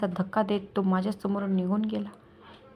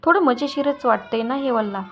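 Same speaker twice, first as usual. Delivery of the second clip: mocking, needling question; sarcastic. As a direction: taunt her with each word. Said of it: "त्यानं खोचकपणे विचारलं".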